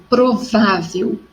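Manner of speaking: provável with a strong middle syllable VÁ; teacher's demo of provável, VÁ stressed. Shown as a demonstration. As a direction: lean on "vá" in provável. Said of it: "sílaba tônica forte no vá".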